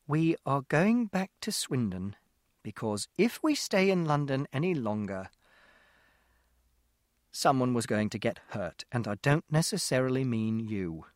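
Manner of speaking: slow, deliberate mother, words spaced out; slow, measured mother keeping a lid on her temper; speaking very slowly. Acted. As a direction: hold it in, drag each word out slowly. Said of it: "Mother spoke very slowly".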